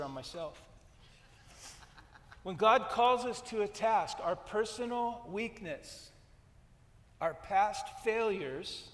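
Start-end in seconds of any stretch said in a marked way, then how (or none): 2.4-8.9 preacher repeating the good line for emphasis, louder; emphatic repeat. Real, not acted. Preacher repeating his point to the church, louder and laughing. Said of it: "Let me repeat that".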